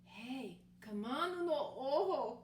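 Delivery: lightly voiced kitty boy calling his friend; a hint of a playful call across the room. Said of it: "called the kitty boy".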